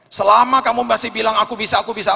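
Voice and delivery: loud, high cocky insistence; mock boast. Pastor mocking a self-reliant believer, loud and cocky. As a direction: ham up a proud "I can do it".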